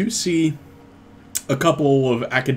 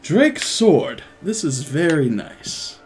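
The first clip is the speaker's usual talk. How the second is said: slow, impressed appraisal; admiring stranger; 2 semitones higher, slower than usual. Acted. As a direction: savor the admiration. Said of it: "He's like".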